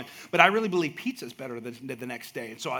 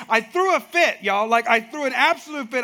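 excited; 2 semitones higher, 6 dB louder than usual. Real, not acted. Preacher recounting his pizza tantrum.

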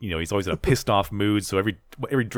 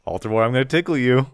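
giggly tickle attack; 3 semitones higher, 5 dB louder, faster than usual. Pretend. Creepy priest voice to altar boy.

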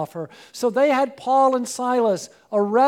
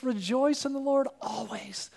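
a morning whisper to start the day; whispered verse; 6 dB quieter than usual. Shown as a demonstration. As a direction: whisper it, no voice at all. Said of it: "let's start our day with Jesus".

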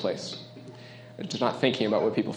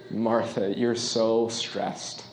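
very slow, gentle rebuke; tender Jesus; much slower than usual. Retold or imitated. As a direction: soothe her, drawing the words out. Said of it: "hear Jesus talking to you".

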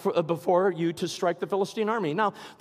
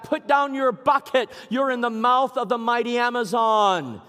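retold yell back; 5 semitones higher than usual. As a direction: call back to the thirsty sailors. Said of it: "they would yell back".

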